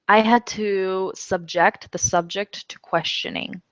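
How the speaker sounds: subJECT verb, SUBject noun; teacher reading a model sentence; homograph demo. Shown as a demonstration. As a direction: stress back then front on "subject". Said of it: "subject and subject are spelled exactly the same way".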